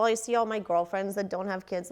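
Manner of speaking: tearful, voice wobbling; holding back tears as she speaks; blubbering. Real, not acted. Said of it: "I'm sorry, I'm crying".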